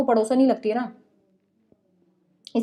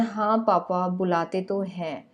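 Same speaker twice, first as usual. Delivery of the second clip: sheepish admission; 4 semitones lower, 6 dB quieter, slower than usual. Retold or imitated. Son sheepishly admits to father.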